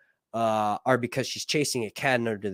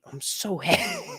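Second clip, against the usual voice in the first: giddy squeal; 9 semitones higher, 4 dB quieter than usual. Real, not acted. Gushing over Valyrian glyphs.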